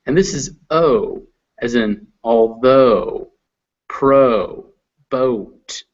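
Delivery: although said slowly, oh gliding to oo; oh diphthong. Shown as a demonstration. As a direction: glide the o in although. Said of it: "mixed with the little U".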